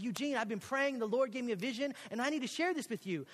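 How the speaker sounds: acting out youthful zeal; earnest eager pitch. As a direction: share a big vision with your mentor. Retells pitching vision to mentor.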